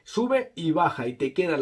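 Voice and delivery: muffled behind cloth; speaking through neck gaiter; through a face covering. Real, not acted. Seen 0: Black neck gaiter covers mouth and nose until 4.7, then lowered.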